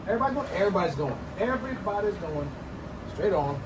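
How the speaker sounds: high, loud cheering call; rally everybody; excited hype. Real, not acted. Cheering on his viewers as cooking starts, high and loud.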